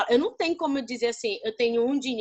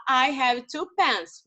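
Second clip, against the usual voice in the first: slow model sentence; much slower than usual. Shown as a demonstration. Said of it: "eu posso falar".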